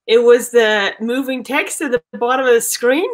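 Aussie detective guessing; put-on Australian accent, low-pitched question. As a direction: probe the witness in an Australian accent. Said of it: "time in that Australian accent".

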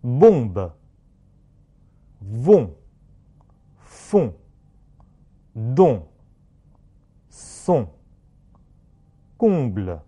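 bombe, vont, font as separate French words with rounded nasal on; nasal vowel drill. Shown as a demonstration. Teacher has class repeat, bombe to parution with nasal on. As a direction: let the on in salon and parution ring through mouth and nose. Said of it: "下面放到单词里面".

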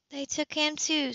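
lightly hushed realisation; murmured. A narrator's reading. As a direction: say it under your breath, moved. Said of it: "Sybil murmured".

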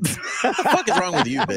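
high, laughing mock yell; giggling faux rage; mock crude outburst. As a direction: tease her with a cartoon snap. Teasing paraphrase of friend.

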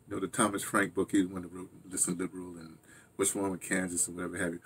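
usual speaking voice

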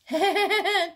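short, high gleeful chuckle; a quick amused laugh. A narrator's reading. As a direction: laugh at your brother getting caught. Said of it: "chuckled Mike behind Kyle".

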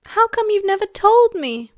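very high, loud, amazed demand; excited whoop. A narrator's reading. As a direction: whoop the question at full pitch. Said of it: "Sirius whooped".

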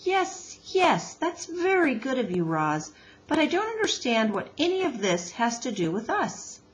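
mildly exasperated, starting high; a touch of weary impatience, politely put; sighing impatience. Acted. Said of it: "Missus Beaver sighed".

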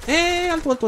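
very high, loud eh of alarm; sudden real fright; startled yell. Real, not acted. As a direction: yelp it out at a sudden threat.

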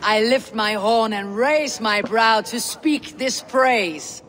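solemn recited tribute; skaldic praise. Acted. Skaldic praise before the king.

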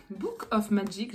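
slow, halting attempt at "Book of Magic" in French-accented English; struggling with the name. Real, not acted. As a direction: stumble slowly through "Book of Magic". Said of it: "J'ai vraiment du mal avec son nom".

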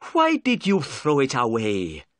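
angry. Acted. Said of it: "cried Inspector Jones angrily".

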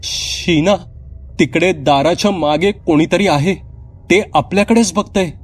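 put-on high, scared child voice; frightened whisper of a girl. Pournima tells her sister someone is at the door, scared. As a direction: point out the thing at the door in fear. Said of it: "पौर्णिमा घाबरत म्हणाली".

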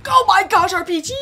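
excited high, loud outburst. Real, not acted. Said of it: "Don't mean to raise my voice".

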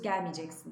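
gelmeyeceksin as gelmicen-sin; spoken form. Shown as a demonstration. Teacher models the reading, gelmiceksin. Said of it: "diye okuyoruz".

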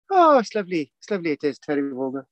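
light mock-Irish broadcaster accent; Irish lilt gliding down to a low finish; Terry Wogan. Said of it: "used to sound a bit like this".

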